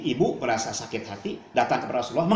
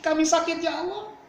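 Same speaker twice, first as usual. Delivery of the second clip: a mother's voice that breaks into a high, grieving cry to God; tearful lament; 3 semitones higher than usual. Acted. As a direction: plead to God through tears, rising higher toward the end. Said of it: "dengan menangis". (ibu pulang sambil menangis, meratap lirih kepada Allah)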